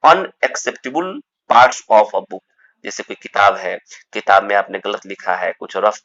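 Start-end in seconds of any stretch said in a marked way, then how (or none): 0.1-2.4 slow dictation. Shown as a demonstration. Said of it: "teacher dictating definition".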